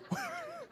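a short high giggle; quick squeaky laugh. Real, not acted. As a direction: giggle at the joke. Preacher laughs at own joke.

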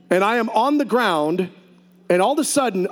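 ordinary talk, nothing marked

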